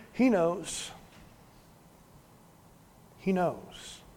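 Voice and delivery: soft, comforting repetition with a long pause; quiet reassurance. Real, not acted. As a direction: drop to a gentle hush to console. Preacher reassures weary congregation.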